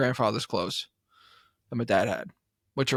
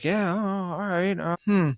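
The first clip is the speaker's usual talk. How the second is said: higher, with a lightly put-on dismissive voice; mock unimpressed dealer; 6 semitones higher, slower than usual. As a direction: play the snooty antique dealer, unimpressed. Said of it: "And she's like".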